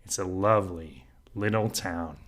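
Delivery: said with depth and gravity; mean every word of it; savouring, enchanted delivery; with presence and depth. Shown as a demonstration. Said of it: "with presence, with depth, with gravity".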